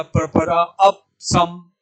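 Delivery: अप cut to "ap" before सम; wrong recitation. Shown as a demonstration. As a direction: recite प्रपरा, अप सम with no vowel after the प. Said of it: "यदि हमने ऐसे याद कर लिया". (गलत उच्चारण, अप का प अधूरा)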